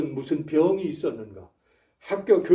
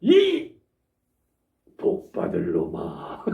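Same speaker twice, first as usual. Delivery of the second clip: mock blessing scold; 12 semitones lower, much slower than usual. Shown as a demonstration. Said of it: "이래야 돼요".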